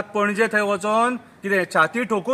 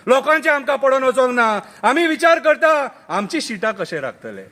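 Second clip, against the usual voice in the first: full-voiced opening, dropping at the end; declaimed verse; 5 semitones higher than usual. Politicians think of keeping their seats, declaimed. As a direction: declaim it out, then fall away. First take of repeated verse.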